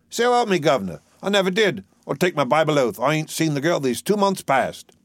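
high, earnest Cockney protest; dustman swearing innocence. Acted.

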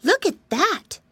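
put-on high, loud little girl. Rabbit girl in story.

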